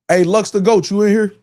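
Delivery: calling out to a viewer, Lux the Goat. Real, not acted. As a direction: shout for him across the room.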